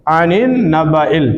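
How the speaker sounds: आनिन नबाइल read slowly with the नून held nasal; slow recitation. Shown as a demonstration. Teacher reciting the joined words for the student. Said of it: "तो नबाइल हो गया".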